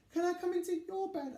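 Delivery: fast, high begging; eager rushed ask. Acted. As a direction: blurt it out hopefully. Little mouse asks again.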